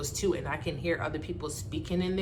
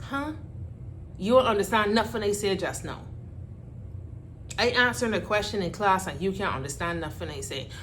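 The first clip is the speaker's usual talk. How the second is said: put-on Bajan accent; 2 semitones higher, faster than usual. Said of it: "frustration of constantly having to repeat myself".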